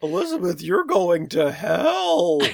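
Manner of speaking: loud, slow, booming bull. Retold or imitated. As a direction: bellow it out like a bull. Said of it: "your bull voice is better than mine".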